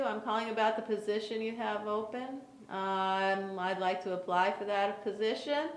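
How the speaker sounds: soft, flat, lifeless phone voice; flat bored caller. Shown as a demonstration. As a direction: sound bored and dull on the phone. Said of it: "let me give you an example".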